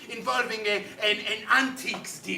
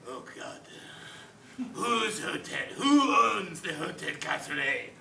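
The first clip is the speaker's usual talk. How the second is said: ordinary talk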